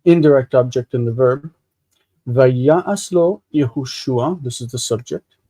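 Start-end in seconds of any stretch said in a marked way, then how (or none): 2.3-4.4 slow, careful reading of the Hebrew phrase; slow teaching read. Shown as a demonstration. Teacher reading the verse slowly to his student, slow and careful. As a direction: lay out each word slowly for the class. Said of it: "Notice the connection between the".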